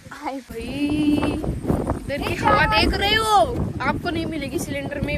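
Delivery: slow put-on Hindi sales voice; mock saleswoman. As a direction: play the pushy oxygen seller, hamming it up. Hindi oxygen विक्रेती. (हिंदीत नाटकी विक्रेतीचा आवाज)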